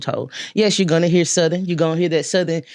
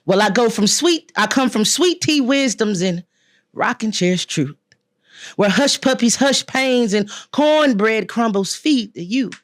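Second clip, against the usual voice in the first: spoken word performance; 4 semitones higher than usual. Shown as a demonstration. Poet shows the host her stage voice, projected spoken word delivery. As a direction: project it like you're on stage reciting your poem. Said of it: "how I changed my voice. I can go from, from here to".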